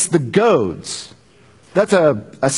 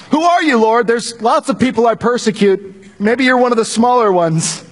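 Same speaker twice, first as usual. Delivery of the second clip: hopeful pleading; 6 semitones higher than usual. Acted. Saul hopes it's someone else.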